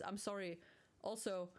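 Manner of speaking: tipsy and a little giggly. Real, not acted. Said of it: "I'm kinda tipsy, drunk-ish thing".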